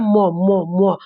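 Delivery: teacher showing the students how म sounds; demonstrating the sound म. Shown as a demonstration. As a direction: hum म twice, lips closed, through the nose. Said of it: "म, आपका क्या हो रहा है?".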